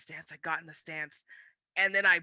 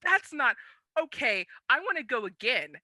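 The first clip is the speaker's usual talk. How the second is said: high, loud, laughing what-the; cracking up in total disbelief; laughing in shock at being outmatched; 10 semitones higher, 7 dB louder than usual. Retold or imitated. Stunned after being pushed out.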